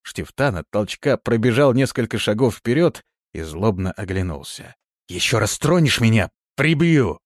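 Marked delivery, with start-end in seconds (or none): 5.1-7.2 loud, angry threat hissed at the demon. A narrator's reading. Shtiftan threatens the demon after a shove, angry hiss. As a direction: snarl the threat back, pushed too far. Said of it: "прошипел он".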